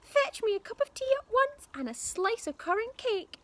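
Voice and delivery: put-on high, loud, crabby old woman; nasty grandma voice. A narrator's reading. Grandma bossing George about tea and cake, loud. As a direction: spit the insults like a witchy granny. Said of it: "Grandma yelled".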